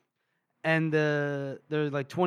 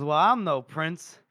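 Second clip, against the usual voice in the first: cocky boast; 5 semitones higher, 4 dB louder than usual. Retold or imitated. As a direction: brag like a new self-made king. Calder boasting after the raid.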